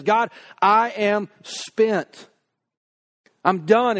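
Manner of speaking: drawn out slowly, worn down and spent; weary lament. Retold or imitated. Preacher voicing David's exhausted prayer, slow and drained. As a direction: let each word drag like a man with nothing left.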